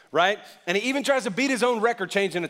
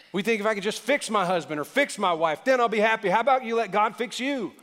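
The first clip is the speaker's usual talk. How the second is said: preaching hard; 5 semitones higher than usual. Real, not acted. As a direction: let it ring out from the pulpit. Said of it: "I'm up here shouting to me".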